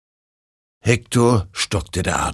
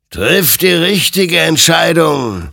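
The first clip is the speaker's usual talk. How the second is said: admonishing; 10 semitones higher, 7 dB louder, slower than usual. Acted. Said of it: "ermahnte ihn".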